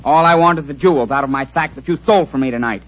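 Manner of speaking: lisping through every s sound. Acted. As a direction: speak with a thick lisp. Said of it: "Why do you talk so funny? You got a cold like me?".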